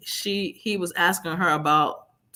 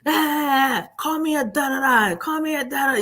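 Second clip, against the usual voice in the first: imitating abuser; 8 semitones higher than usual. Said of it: "he's like".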